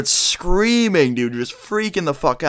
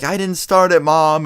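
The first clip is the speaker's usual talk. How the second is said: put-on higher-pitched kid pleading innocence to mom; retold pleading; 5 semitones higher, 4 dB louder than usual. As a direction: plead like an accused child, pitched up. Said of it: "I just pleaded my case".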